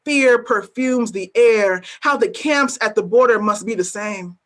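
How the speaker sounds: deliberate, weighty spoken-word recitation; a poet performing at a reading; spoken word poem. Acted. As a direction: lay each image down slowly, letting the refrain land. Reads her poem aloud.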